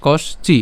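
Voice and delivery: কষ চি in two parts; broken-down pronunciation. Shown as a demonstration. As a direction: stop on "kosh" in কষ চি, then "chi". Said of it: "পর্যন্ত উচ্চারণ করছি". (কষ চি দুই ভাগে)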